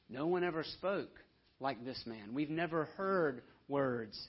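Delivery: dumbfounded awe. Retold or imitated. Officers repeat, dumbfounded.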